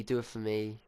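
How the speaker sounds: a touch of quiet begging; soft pleading. Retold or imitated. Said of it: "instantly she goes".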